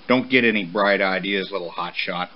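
low-key stern father; firm warning, falling away at the end. Acted. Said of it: "Papa warned as he walked off".

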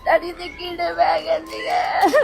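crying out. Real, not acted. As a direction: wail it slowly through tears. Crying over father's death. (ਰੋਂਦੇ ਹੋਏ ਉੱਚੀ ਤੇ ਹੌਲੀ)

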